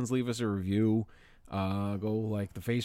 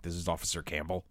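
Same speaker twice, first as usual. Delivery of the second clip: a hint of a stern officer; 3 semitones lower, 4 dB quieter than usual. Retelling the caller's opening line, lightly stern officer. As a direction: lower and softer, mock stern officer. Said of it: "very stern".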